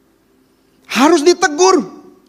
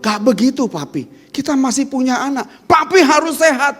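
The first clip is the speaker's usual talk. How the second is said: earnest reminder; 8 semitones higher than usual. Shown as a demonstration.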